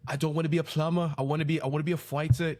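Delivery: a quick, badly faked Irish accent. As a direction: rattle it off in a weak Irish accent. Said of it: "like, a terrible Irish accent".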